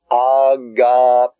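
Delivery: agapao drawn out slowly; slow Greek word. Shown as a demonstration. Teacher reading the Greek word slowly to students. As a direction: sound out agapao for the class. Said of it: "In the next word".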